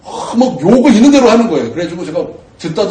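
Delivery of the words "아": ordinary talk, nothing marked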